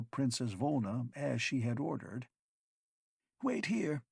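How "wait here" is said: high, sharp arrogant order; arrogant snap. A narrator's reading. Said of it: "Proclium snapped arrogantly".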